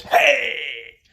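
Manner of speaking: loud, high shout jumping out; sudden shout. Acted. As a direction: yell it to startle someone. Hippie jumps out at nun.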